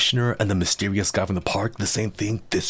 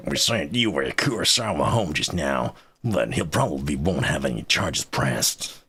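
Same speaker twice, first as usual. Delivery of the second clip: gruff cowboy-spy blend; Solid Snake cowboy mix. Acted. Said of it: "solid cowboy".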